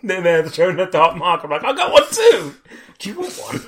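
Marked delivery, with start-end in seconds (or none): 1.6-3.6 high, bright mock eagerness; higher playful offer; eager offer. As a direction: offer it proudly. Showing off the dark mark.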